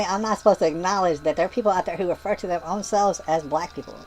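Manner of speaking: ordinary talk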